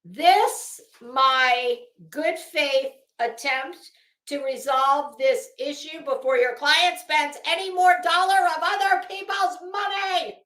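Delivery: loud, pompous letter reading; hammy stage actor. Pretend. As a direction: declaim it like a lawyer.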